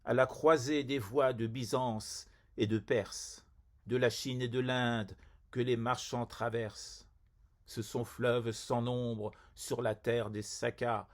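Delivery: measured poem reading with a narrow, even melody; poetry recitation. Acted. Poet reading a ghazal on Samarcande to poetry lovers, measured recitation. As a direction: recite the verse evenly, phrase by phrase.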